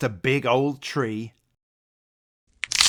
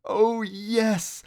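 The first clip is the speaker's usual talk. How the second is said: put-on hushed, worried old rabbit, high; fearful; 9 semitones higher than usual. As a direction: say it like you dread the answer. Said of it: "said fearfully".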